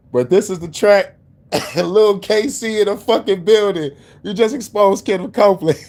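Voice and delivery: high, excited hype-man shout-out; hyped up. Real, not acted. Hyping the remix track.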